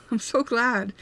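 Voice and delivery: glad words through a laugh; real happy laugh on the words; laughing with relief. Real, not acted.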